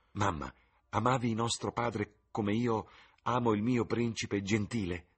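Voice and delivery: voce di ragazza, più acuta, piena di slancio; giovane innamorata. Acted. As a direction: fanciulla entusiasta che si confida. Sibyl parla alla madre. (Sibyl alla madre, voce acuta e sognante)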